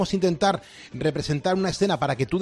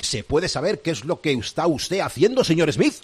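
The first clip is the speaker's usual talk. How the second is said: villainous pirate captain. Acted. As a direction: gloat like a sly pirate captain. Pirate captain confronts his mate.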